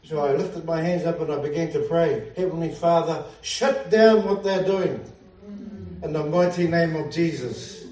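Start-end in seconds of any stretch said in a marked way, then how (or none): 2.3-7.8 fervent prayer. Retold or imitated. Preacher retelling his prayer against the witches on the beach, fervent. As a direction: pray it out with authority.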